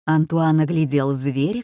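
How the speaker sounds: usual speaking voice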